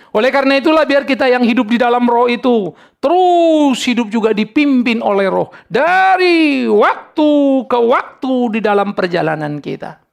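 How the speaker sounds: sustained rousing sermon delivery; impassioned preaching. Real, not acted. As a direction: preach it out, stretching the key words. Preaches at full force.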